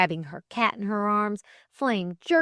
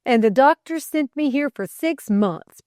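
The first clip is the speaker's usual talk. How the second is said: raised, loud insistence; persistent; 7 semitones higher, 7 dB louder than usual. A narrator's reading. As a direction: press on with the complaint. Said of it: "persisted Delcote".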